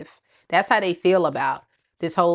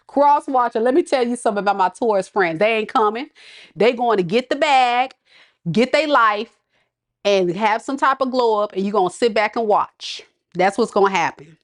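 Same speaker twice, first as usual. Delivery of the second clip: higher, sassy telling off; sassy warning; 3 semitones higher than usual. Real, not acted. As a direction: put them in their place. Warning the watcher about Taurus.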